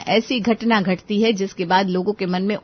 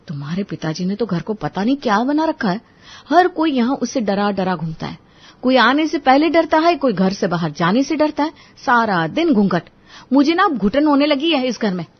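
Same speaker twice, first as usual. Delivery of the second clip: raised, higher, quicker venting; frustrated complaint; 5 semitones higher, 4 dB louder than usual. Acted. Wife complains to husband about his father, raised and exasperated. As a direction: let the suffocation burst out.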